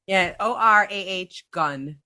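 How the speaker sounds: slow, each letter said separately, O R A H gun; slowly sounding it out for him; spelled out sounds. Shown as a demonstration.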